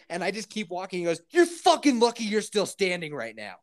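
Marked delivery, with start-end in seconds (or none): 1.3-3.5 mildly raised, mock-angry neighbour; retold angry threat. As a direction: imitate an irate man making a threat.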